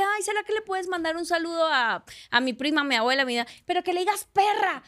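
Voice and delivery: lightly imitated pleading fan; fan pidiendo un saludo. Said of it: "Hay gente que me dice". (fan que pide un favor, imitado)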